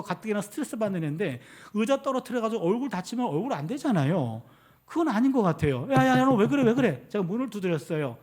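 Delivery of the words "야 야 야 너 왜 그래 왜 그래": louder, urgent burst of repeated words; alarmed calling. Retold or imitated. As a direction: call urgently through the child's door. Alarmed father at child's door.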